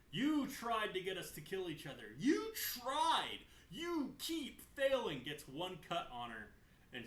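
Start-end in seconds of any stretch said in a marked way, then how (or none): 0.1-5.2 furious shout, much higher and louder; losing her temper. Retold or imitated. Sylvanas screaming at Saurfang in a rage. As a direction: yell it, slowing on the last words. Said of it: "Loses her temper yet again".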